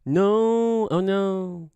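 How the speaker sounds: high, drawn-out mock cry of dismay; exaggerated comic wail; Kevin Hart. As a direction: stretch it out high like a comedian. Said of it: "he does that, right?".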